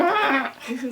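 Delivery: hammed-up cry; mock bawling. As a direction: fake a kid bawling. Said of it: "I'm bawling my eyes out".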